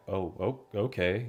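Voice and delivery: softly murmured mock realisation; imitated hesitant reaction. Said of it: "I heard you kinda go like".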